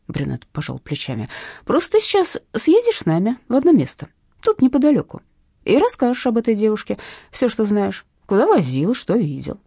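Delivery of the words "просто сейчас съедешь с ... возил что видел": loud high threatening order; menacing thug. Acted. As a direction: command him, raised and loud. Thug orders driver along. (угрожающий приказ бандита)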